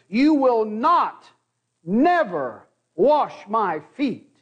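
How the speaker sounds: slow, weighty not and never; double negative stressed. Retold or imitated. Peter refusing Jesus, slow stressed double negative. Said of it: "if it were literally translated".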